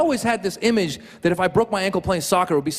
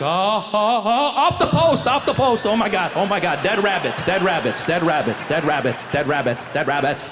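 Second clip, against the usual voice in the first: orgasmic excitement. Acted. Comic acting a fan at a near miss, orgasmic excitement draining away.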